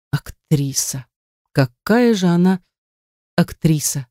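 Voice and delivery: a touch of a despairing groan; inner moan. A narrator's reading. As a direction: moan the word to herself, drained. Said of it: "простонала Женя про себя".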